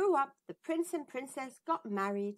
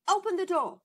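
queen commanding; 8 semitones higher, 7 dB louder, faster than usual. Acted. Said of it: "said the queen".

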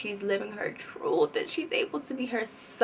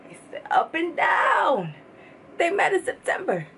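excited exclaim; 8 semitones higher than usual. Real, not acted. Fan hyped over a lyric detail, excited shouting. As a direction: shout it like a favorite line lands.

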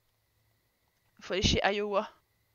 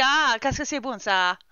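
a hint of a bad Italian accent, a bit louder; a clumsy mock Italian accent; poor Italian accent, lightly done; 4 dB louder, slower than usual. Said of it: "Accent italien de merde".

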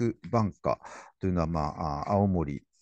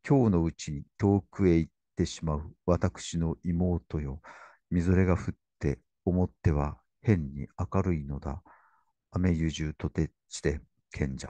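solemn poetry recital; poem reading; 2 semitones lower than usual. Acted. Lecturer reading Kenji's poem to his sister, solemn recital. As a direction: lay the lines out gravely. Reads 永訣の朝 excerpt.

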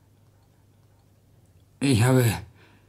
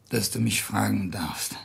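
whisper; 4 semitones lower, 8 dB quieter than usual. Acted. Hiob pleads quietly with the voice.

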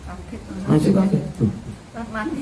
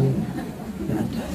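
laughing refusal; 3 semitones lower, 12 dB quieter, much slower than usual. Acted. Kiai refuses, laughing softly.

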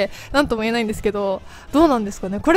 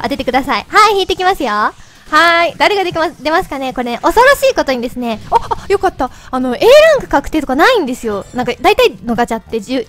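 chipmunk voice from helium; 3 dB louder than usual. Real, not acted. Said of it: "自分で聞いてると声よくわかんない". (ヘリウムガスの甲高い声)

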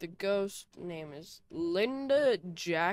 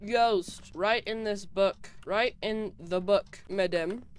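louder call to an unseen ghost; 6 dB louder, slower than usual. Real, not acted. Player calls to the ghost to write in the book: louder calling out. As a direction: call out into the empty house.

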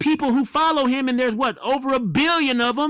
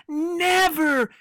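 mocking quote; slower than usual. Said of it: "He says".

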